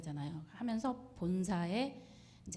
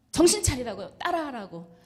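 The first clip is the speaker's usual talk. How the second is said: a loud push to snap her out of it; urgent call; 3 semitones higher, 8 dB louder than usual. Retold or imitated. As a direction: call out sharply to wake her up. Urging her while hitting her back.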